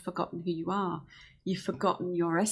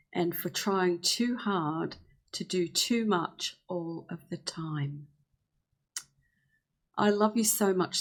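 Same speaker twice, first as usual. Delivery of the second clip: sincere healing prayer. Shown as a demonstration. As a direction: speak gently and earnestly to yourself. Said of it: "these are the kind of things you could say".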